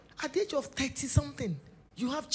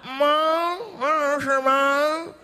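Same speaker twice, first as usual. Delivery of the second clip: put-on child calling back; 4 semitones higher, 10 dB louder than usual. Child answers mother's call.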